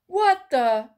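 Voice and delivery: loud, startled half question; startled exclamation at the door; surprised outburst. A narrator's reading. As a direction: caught off guard, blurt it out. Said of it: "Mike was surprised".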